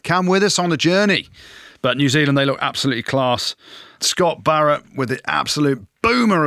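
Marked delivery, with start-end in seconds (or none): 0.0-1.3 higher and louder, hammed-up coach's rallying call; mocking a rival coach's catchphrase; mock Eddie Jones catchphrase. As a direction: lampoon the coach's slogan with a big lift.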